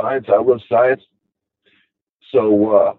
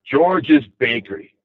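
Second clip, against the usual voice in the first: wistful; slower than usual. Retold or imitated. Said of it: "Just like that".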